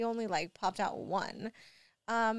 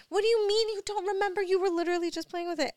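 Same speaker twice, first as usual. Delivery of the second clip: much higher, louder, fast disbelieving scold; exasperated scolding; 10 semitones higher, 6 dB louder, faster than usual. Retold or imitated. Mom retelling scolding her son who claims he forgot, fast exasperated scold. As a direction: come at him fast in disbelief. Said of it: "'cause I was like".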